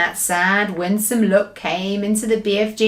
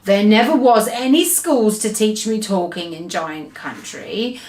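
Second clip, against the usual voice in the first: sad. Acted. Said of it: "the B F G said sadly".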